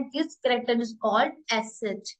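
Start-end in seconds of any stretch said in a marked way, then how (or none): 1.6-2.1 slow naming. Shown as a demonstration. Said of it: "इस symbol का name है".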